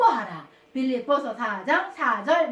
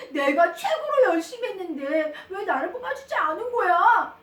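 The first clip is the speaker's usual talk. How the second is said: acted child's aggrieved complaint; mildly hammed-up hurt indignation; upset protest; 3 semitones higher, 3 dB louder than usual. Child passed over despite working hardest, acted upset protest. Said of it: "상미는 너무나 속상해가지고요".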